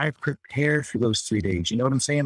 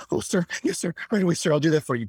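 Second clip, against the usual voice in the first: higher, quicker eager yes-sir voice; young recruit; 5 semitones higher, faster than usual. Retold or imitated. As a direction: hurry to obey, yes sir.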